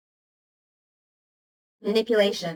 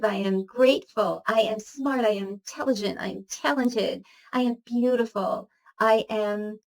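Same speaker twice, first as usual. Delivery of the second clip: affirmation recital. Shown as a demonstration. Reciting her daily I am list to viewers, rhythmic chant. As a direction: recite each line like a morning mantra.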